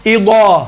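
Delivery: اذا as heavy "idaw", tongue pressed to the palate; thick d-like ض in اذا; Arabic daad. Shown as a demonstration. Teacher models daad to repeat, heavy. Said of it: "تالو سے لگ جائے تو یہ واد ادا ہوتا ہے".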